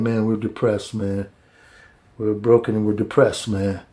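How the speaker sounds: hint of gloomy moaning; mock depressed. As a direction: drag it down like a sulking prisoner. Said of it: "really depressed and broken".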